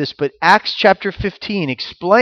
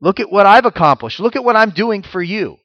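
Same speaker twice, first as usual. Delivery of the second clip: boastful prayer; 4 semitones higher, 3 dB louder than usual. Retold or imitated. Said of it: "doing it to win favor with God or to say".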